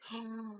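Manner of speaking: soft freaked-out gasp; quiet, startled intake of breath; retold gasp. Retelling getting the admins' message, hushed startled gasp. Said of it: "I started freaking out".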